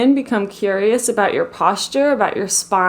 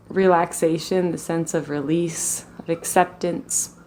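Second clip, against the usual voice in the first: calm, even meditation voice with long pauses; guided meditation; 3 semitones lower, 4 dB quieter than usual. Real, not acted. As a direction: guide them gently into the body, leaving space between phrases.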